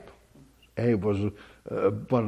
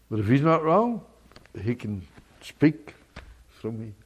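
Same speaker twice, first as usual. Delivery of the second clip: normal talking voice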